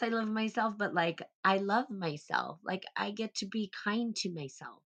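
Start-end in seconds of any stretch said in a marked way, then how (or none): 0.0-0.7 "I love myself" tossed off with swagger; cocky badass take on "I love myself"; badass self-love. Shown as a demonstration. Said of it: "Not like I'm a badass". 1.4-2.6 "I love myself" said slowly and softly, tender; slow, sincere "I love myself", no swagger; gentle self-love. Shown as a demonstration. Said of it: "Not like I'm a badass".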